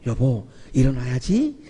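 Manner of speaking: 낮은 목소리로 부드럽게 깨우기; 사랑을 담아 나직이 깨우듯; 따뜻하고 다정하게. Shown as a demonstration. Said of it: "이러면 막 따뜻한 막 사랑이 느껴지죠". (낮고 따뜻하게 깨우는 소리)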